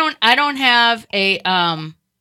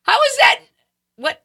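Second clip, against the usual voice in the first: much higher and louder, incredulous; hammed-up shock at the news feed; mock disbelief; 10 semitones higher, 4 dB louder than usual. Reacting to trending Kardashian news.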